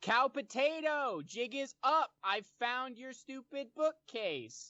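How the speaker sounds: very high, shrill yelling shout. In the game, as the hidden bookcase slides open: shouting. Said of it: "I'm shouting".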